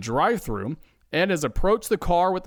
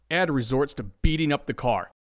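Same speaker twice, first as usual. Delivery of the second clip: usual speaking voice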